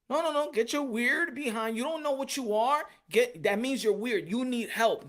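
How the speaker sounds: a hammed-up scolding for the listeners; angry demo rejection. Shown as a demonstration. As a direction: chase them off in disgust. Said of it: "So you gotta do it".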